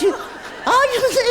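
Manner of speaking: high, loud, slow call; loud seance call. Shown as a demonstration. Host showing the assistant how to call the spirit, loud and high. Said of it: "you've got to ask if he's there first".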